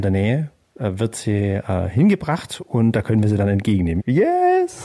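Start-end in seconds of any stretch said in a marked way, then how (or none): 4.1-4.9 high, thrilled shout of yes; excited cheer. Real, not acted. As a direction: cheer it like great news. Cheering at the pickup news.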